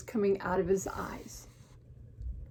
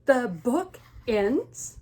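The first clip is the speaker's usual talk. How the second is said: slow, loud, disbelieving question; panicked, each word drawn out, rising at the end; aghast storybook question; Gerald; 3 semitones higher, 5 dB louder, much slower than usual. Acted. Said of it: "he's panicked".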